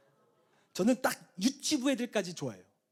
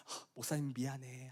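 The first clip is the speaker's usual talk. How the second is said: soothing apology; 5 semitones lower, 8 dB quieter than usual. Retold or imitated. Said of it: "마음을 진정시키려고".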